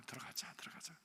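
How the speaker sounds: soft whispered coaxing; 부드럽게 속삭이며 달래듯이. Retold or imitated. Elder coaxing the child softly. (아이를 달래는 속삭임)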